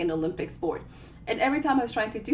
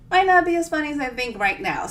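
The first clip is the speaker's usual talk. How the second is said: louder, laughing through the words; 5 semitones higher, 6 dB louder than usual. Real, not acted. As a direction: let the real laughter spill over. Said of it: "laughs at own joke".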